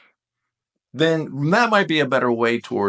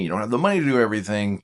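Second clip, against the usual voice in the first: ordinary talk, nothing marked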